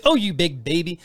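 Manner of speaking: laughing mock scold oh, you big baby; teasing through a laugh. Wife teasing her sensitive husband, laughing. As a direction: tease him while laughing. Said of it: "she goes".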